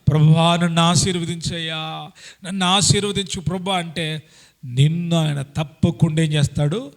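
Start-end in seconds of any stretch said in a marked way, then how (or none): 0.1-3.8 persistent, pleading and stronger; earnest pleading prayer. Shown as a demonstration. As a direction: plead with God, holding on, near tears. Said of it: "గట్టిగా పట్టుబట్టి, పట్టుదల కలిగి, కన్నీళ్లు విడుస్తా". (పట్టుదలతో వేడుకునే ప్రార్థన)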